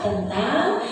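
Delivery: slow, low, drawling MC parody; slow-talker imitation. Trainer mimics an MC addressing ibu-ibu, slow-talker imitation. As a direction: drag it out like a sluggish host. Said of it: "Ada yang misalnya kalau berbicara kayak".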